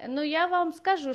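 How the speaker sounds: ordinary talk, nothing marked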